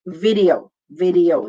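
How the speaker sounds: "Video" as vi-dee-o; careful English "Video"; three syllables. Shown as a demonstration. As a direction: keep the ee apart from the o in "Video". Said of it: "Three syllables".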